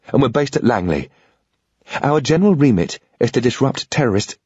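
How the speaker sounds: a lightly voiced woman, urgent and earnest; a hint of a pleading woman's voice; Sarah, pleading.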